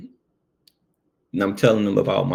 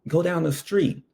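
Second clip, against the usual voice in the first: partner's warning, pitched high; hushed, pushy warning from a nervous partner; urgent partner; 9 semitones higher than usual. Retold or imitated. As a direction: hiss a hurried warning, higher. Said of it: "And he was like".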